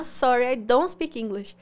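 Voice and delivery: lightly mocked helpless apology; pitiful apologizer. Shown as a demonstration. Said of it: "faz a carinha de coitado".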